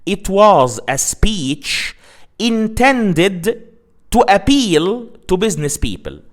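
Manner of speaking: slow, deliberate example sentence; example read slowly. Shown as a demonstration. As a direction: read the example out carefully, word by word. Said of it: "Let me say the example again".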